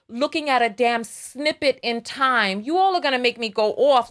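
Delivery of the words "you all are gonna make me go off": rising New York rant, louder and louder; heated New York accent boiling over. Real, not acted. Vlogger warning viewers, thick New York accent building. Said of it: "my New York accent is so strong".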